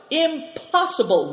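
high, wailing cry of disbelief; high-pitched, plaintive objection; wailed protest. A narrator's reading. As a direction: wail it in dismay. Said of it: "wailed Ma".

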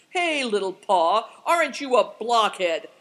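loud, blustering call; booming, scolding shout; thundering. A narrator's reading. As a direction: bellow at a companion. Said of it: "he thundered".

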